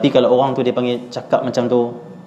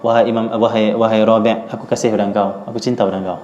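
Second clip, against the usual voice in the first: tender; 2 semitones lower than usual. Retold or imitated. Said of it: "Imam Syafi'i kata apa".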